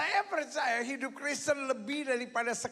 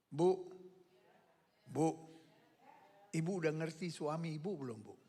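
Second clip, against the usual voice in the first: much softer, lower, quicker aside; quiet teasing; 10 semitones lower, 7 dB quieter, faster than usual. Real, not acted. Pastor teasing the mothers about their husbands, soft quick aside. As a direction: lean in and tease the wives softly.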